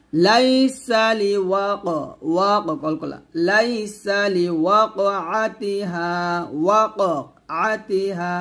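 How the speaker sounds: لوقعتها with a bouncing qaf; qalqala demo. Shown as a demonstration. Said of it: "অবশ্যই এখানে কলকলা করবেন". (ক্বলক্বলা সহ উচ্চারণ)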